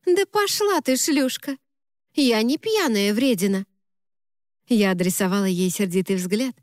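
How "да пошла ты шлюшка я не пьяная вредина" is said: much higher, playful mock snap; jokey tipsy retort, not really angry; mock outrage. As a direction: fake offence between friends. Tipsy friend mock-snaps back.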